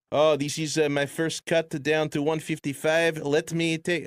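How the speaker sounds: put-on light, half-hearted French Canadian accent; a sketchy French Canadian accent drifting off; George Saint Pierre French Canadian accent. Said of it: "my French Canadian accent".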